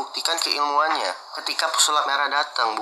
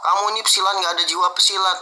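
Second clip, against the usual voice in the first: retold angry rebuke; 5 semitones higher than usual. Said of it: "ketika dia ngomong".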